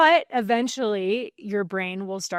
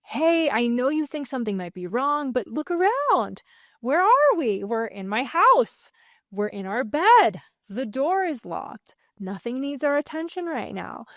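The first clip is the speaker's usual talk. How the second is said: high, gentle reassurance; comforting a frightened child at bedtime; soothing an anxious child; 3 semitones higher than usual. Shown as a demonstration. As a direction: talk to your brain like a scared child. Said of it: "like you're talking to an anxious child".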